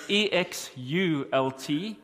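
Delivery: E X U L T spelled slowly, one letter at a time; careful slow spelling of E X U L T for the congregation. Shown as a demonstration. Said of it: "you see, I'm ready".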